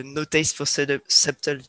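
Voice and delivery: English lyrics read in a mock-proud English accent; lightly put-on English accent; self-mocking English accent. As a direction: show off a French speaker's English accent. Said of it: "avec mon super accent anglais".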